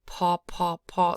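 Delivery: PA with a strong puff of air on the P; aspirated P. Shown as a demonstration. Teacher showing learners the sound, aspirated P in PA. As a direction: pop out each PA with aspirated P. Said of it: "aspirated P is a".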